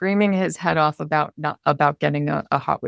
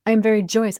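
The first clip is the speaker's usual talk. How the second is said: joyous demo; 4 semitones higher, 5 dB louder, faster than usual. Shown as a demonstration. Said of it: "I am feeling very frustrated".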